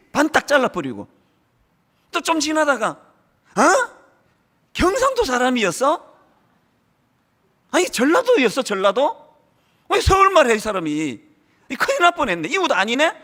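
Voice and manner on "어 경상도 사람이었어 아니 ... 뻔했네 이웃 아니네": mock surprise. Voicing a shocked church member.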